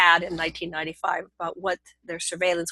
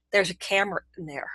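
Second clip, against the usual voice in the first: whispered fast, just breath, no voice; hushed whisper; 5 dB quieter, faster than usual. Retold or imitated. Lovers in bed spotting the hidden camera, urgent whisper. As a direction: whisper it like you just spotted something you shouldn't.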